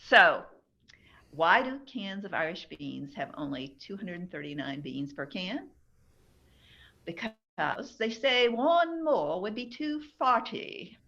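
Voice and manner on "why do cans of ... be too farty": put-on light Irish accent, joke punchline; a hint of an Irish lilt. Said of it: "that wasn't a bad Irish accent either".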